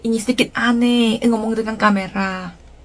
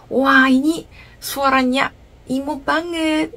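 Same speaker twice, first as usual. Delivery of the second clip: delighted gasp; 5 semitones higher, slower than usual. Retold or imitated. Quoting her first delighted reaction.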